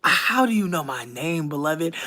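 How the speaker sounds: mock older lady. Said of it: "the way this lady was like".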